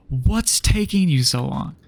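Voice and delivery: slow, drawn-out imitation of impatience; mock impatience. Examiner hurrying student at stop sign, mock impatient. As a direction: stretch out the mocked complaint.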